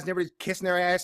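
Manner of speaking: normal talking voice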